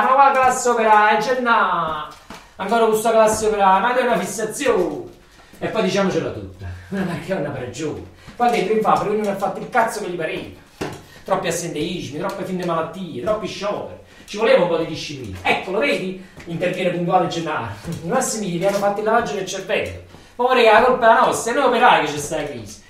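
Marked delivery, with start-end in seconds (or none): 0.0-5.0 louder, fed-up cry at a friend; exasperated outburst. Acted. 20.3-22.8 louder, outraged cry; indignant protest. Acted.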